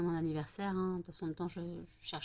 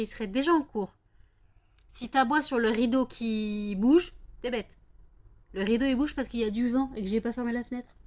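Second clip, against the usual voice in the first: exasperated, raised telling-off; lecturing the dog; 3 semitones higher, 3 dB louder than usual. Real, not acted. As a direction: scold the silly dog. (gronder le chien d'un ton exaspéré)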